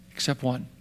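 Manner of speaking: dropped to a near whisper; soft, low dramatic reveal; dramatic hush. Real, not acted. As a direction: pull the room in quietly. Preacher drops voice dramatically.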